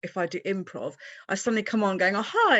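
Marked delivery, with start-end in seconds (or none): 2.1-2.6 bright, high mock-eager hi; gushing camera greeting; overpresented hello. Mocking her own over-the-top on-camera hello. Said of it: "I look a little bit too".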